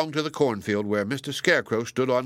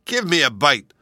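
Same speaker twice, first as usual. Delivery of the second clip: higher, louder eager apple; greedy apple; 4 semitones higher, 6 dB louder than usual. A narrator's reading. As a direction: snap for a bite. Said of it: "said the first little red apple".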